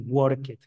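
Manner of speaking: "work it" with -ed as its own syllable; mispronounced -ed. Shown as a demonstration. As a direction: add a wrong extra "it" beat after "work". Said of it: "nunca se va a decir".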